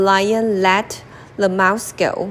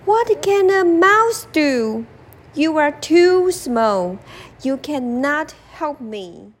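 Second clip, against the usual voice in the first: higher, scoffing lion voice; lightly voiced lion doubting the mouse; 6 semitones higher than usual.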